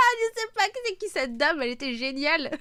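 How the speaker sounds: voix aiguë, secouée de rire; hilare. Real, not acted. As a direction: parler en plein rire, incrédule et ravie. Elle rit en racontant l'oral. (hilare, voix qui monte dans les aigus)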